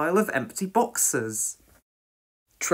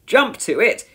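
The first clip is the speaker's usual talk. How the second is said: raised, loud command; urgent order; 7 semitones higher, 7 dB louder than usual. A narrator's reading. Station officer bursts in with news of fire, ordering. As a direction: order the crew into action. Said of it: "he ordered".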